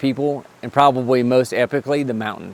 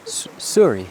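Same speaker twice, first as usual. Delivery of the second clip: mock Canadian. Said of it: "It sounds like Wayne's World".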